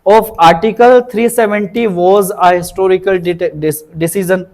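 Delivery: slow, careful dictation pace; slow example sentence. Shown as a demonstration. Teacher dictating the example sentence to students, slow and deliberate. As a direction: spell the sentence out slowly for learners. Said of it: "इस तरह से guys आप इस word को use करें".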